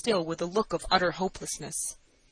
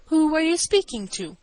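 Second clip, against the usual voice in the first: high, loud, haughty challenge; stateliest manner; 9 semitones higher, 6 dB louder than usual. A narrator's reading. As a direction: ask it as an affronted grand lady. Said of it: "I inquired in my stateliest manner".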